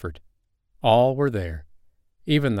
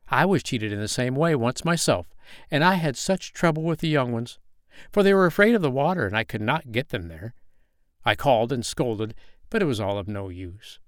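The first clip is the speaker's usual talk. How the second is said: put-on a lightly raised voice for a know-all old duck; an old duck, lightly voiced, giving firm advice; 3 semitones higher than usual. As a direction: lecture like an old busybody.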